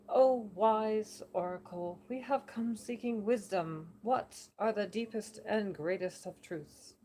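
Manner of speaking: slow, grand address to an oracle; mock-reverent slow plea; solemn seeker. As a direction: intone it like a pilgrim before a god. John addresses the oracle formally.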